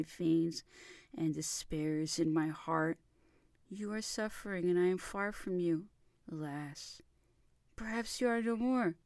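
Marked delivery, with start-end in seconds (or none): none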